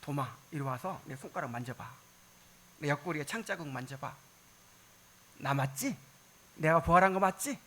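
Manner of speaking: gentle Jesus voice, softly inviting; tender. Acted.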